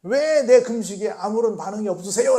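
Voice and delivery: 금식하며 투정하는 사람 흉내; mock complaining. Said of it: "라고 지금 외치는 거예요".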